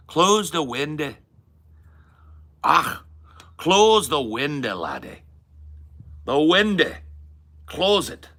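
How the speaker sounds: high, loud Northern Irish shout; Northern Irish accent. Acted. Acting out someone telling laddie to close the window, Northern Irish accent. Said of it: "In Northern Ireland, they say windy".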